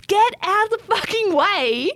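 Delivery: retold scream. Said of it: "So I'm screaming at these kids".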